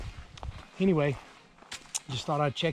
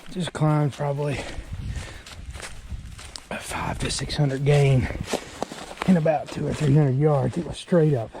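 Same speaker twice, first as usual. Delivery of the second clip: winded, panting between phrases; out of breath. Real, not acted. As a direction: talk while catching your breath. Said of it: "I'm out of breath".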